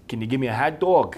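lightly put-on Boston street voice; playful Boston impression; rough Boston accent. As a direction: have a go at a Boston accent, amused. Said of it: "I don't even know if it's Boston".

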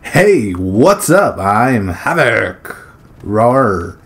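slow, hammed-up hype intro ending in a mock roar; energetic intro. Gamer shows the energetic voice he wants, a slow hammed-up hype intro. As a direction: pump it up like a channel host. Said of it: "that energetic voice".

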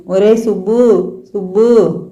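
slow, lightly tearful calling of the son; a mother calling out through mock tears, slowly; understated weeping plea, drawn out; mild crying. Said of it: "Suramma ఏడుస్తూ".

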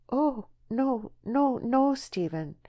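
high, anxious protest; voiced woman recoiling in alarm; alarmed refusal. A narrator's reading. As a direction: plead against it, voice lifted high.

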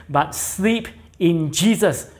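slow sleep in Jesus, Jesus leaned on; stress on Jesus. Shown as a demonstration. Preacher contrasting mere sleep, stressing Jesus slowly. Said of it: "It's not just sleep".

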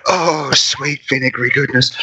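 blissful food sigh; savouring. Acted. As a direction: mouth full of relish. Savouring a pickled foot.

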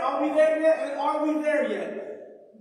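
same question over and over, mock-nagging; lightly voiced impatient children. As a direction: imitate kids pestering on a road trip. Voices nagging children on road trip.

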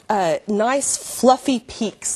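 slow, savoring "nice fluffy peaks"; lingering on the phrase "fluffy peaks"; fluffy peaks, said slowly. Shown as a demonstration. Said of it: "That's the way they say it".

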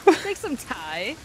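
slow mocking copy of a bad British accent; exaggerated fake British imitation; mimicked British accent. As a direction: tease the botched British vowel, drawn out. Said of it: "What accent was that?".

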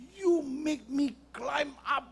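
high, slow mock outrage; hammed-up anger. Official's wife scolding airline crew, hammed-up anger. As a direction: drag out the words, punch the last. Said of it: "Wah, dia marah sekali".

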